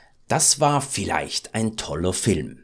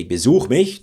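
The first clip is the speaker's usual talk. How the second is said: like an order; 2 semitones higher, 6 dB louder than usual. Shown as a demonstration. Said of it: "then it's more like an order".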